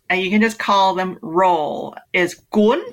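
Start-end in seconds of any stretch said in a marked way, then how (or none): 2.5-2.8 GUN with a sharply rising tone; upward intonation. Shown as a demonstration. Teaching hosts the Vietnamese word for roll, upward intonation. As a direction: lift the pitch sharply through GUN. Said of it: "there's this upward intonation on the accent".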